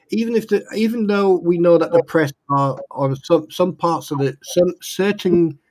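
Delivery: talking with teeth half out; words slipping past loose dentures. Real, not acted. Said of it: "put my teeth back in".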